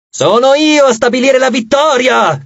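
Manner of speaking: high, imperious outcry; crying out. A narrator's reading. Nike to her rival self, crying out. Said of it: "gridò Nike".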